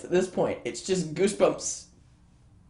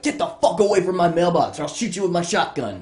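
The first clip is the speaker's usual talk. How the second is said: loud, raised acted threat; threatening neighbour yell; 4 semitones higher, 5 dB louder than usual. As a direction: chase them off the property. Neighbour threatens kids with shotgun.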